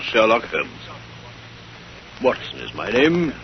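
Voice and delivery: measured, slow narrator's introduction; unhurried storyteller opening the case; story intro narration. A narrator's reading. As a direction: introduce the tale like an old radio host.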